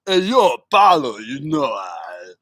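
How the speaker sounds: channel Rocky Balboa, mumbly; Stallone impression. Streamer doing Rocky for chat, light Stallone voice. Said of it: "There's Sylvester".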